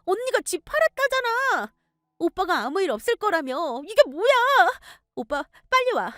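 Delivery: put-on high, pleading and indignant young woman; shrill protest against losing the house; whiny sister-in-law. Sister-in-law calls her brother. (높은 목소리로 억울하게 따지는 시누이)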